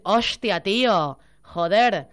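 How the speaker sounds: mild mock Castilian exclamation; lightly imitating a Spaniard swearing; a hint of Spain Spanish "Hostia, tío, joder". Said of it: "va a decir".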